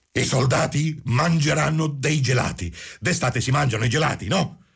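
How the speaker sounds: high-pitched cry without extra volume. A narrator's reading. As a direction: call it out in the madman's high voice. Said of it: "Quindi gridò".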